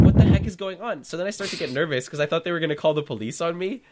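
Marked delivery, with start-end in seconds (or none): 0.1-1.0 loud, high baffled exclamation; retold bewilderment. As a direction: act out total confusion, raised voice. Bewildered by the family's behaviour.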